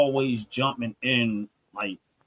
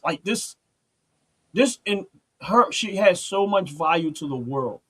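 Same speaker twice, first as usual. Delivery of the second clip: rising anguish; 5 semitones higher than usual. Real, not acted. Grief and anger rising.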